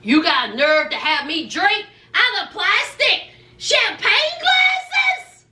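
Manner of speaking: mock indignant yell rising on glasses; hammed-up outrage at plastic; outraged wife. Wife scolding husband over plastic glasses, a mock indignant yell.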